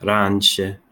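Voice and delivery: "Раньше" carefully echoed in Russian as "ranʃə"; careful Russian repeat. Shown as a demonstration. Learner echoing the Russian reading voice, pronouncing "Раньше" carefully. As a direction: repeat "Раньше" slowly after the reader. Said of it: "make sure that you're getting close to the pronunciation".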